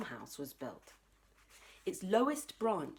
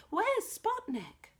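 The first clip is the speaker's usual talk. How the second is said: anxious call; slower than usual. Acted. Jessie asks anxiously.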